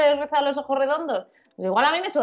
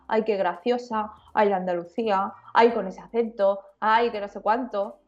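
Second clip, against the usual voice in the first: mocking people gushing; 4 semitones lower than usual. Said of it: "era el día de la marmota".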